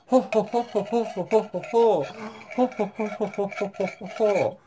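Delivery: soft, repeated mock-villain ho-ho-ho; staged gloating chuckle. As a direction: keep a quiet pretend gloat chuckling along. Gloats while cutting off feet.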